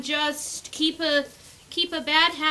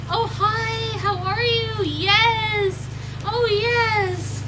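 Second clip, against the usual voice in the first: much higher, louder cooing hello; happy puppy greeting; 7 semitones higher, 4 dB louder, much slower than usual. Shown as a demonstration. Breeder cheers up the insulted puppy, high and cooing. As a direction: cheer her up right away. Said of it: "immediately make her happy about it".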